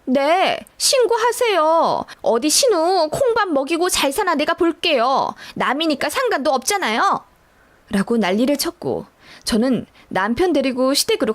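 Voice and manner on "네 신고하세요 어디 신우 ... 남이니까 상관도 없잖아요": a touch of a tearful shout, the first word slowed and pitched higher; sister-in-law daring her to report it, half-hearted yell; mock tearful yell. Sister-in-law defiantly tells her to call the police, mild mock yell. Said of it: "엉엉 울면서 저더러 신고하라고 소리를 치더라고요".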